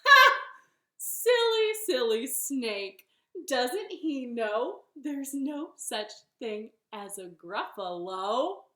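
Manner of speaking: loud, high start, drawn-out gloating; smug bunny. Acted. Bunny mocks snake after fooling him, smug. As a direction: crow it slowly with mock pity. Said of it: "And the bunny said".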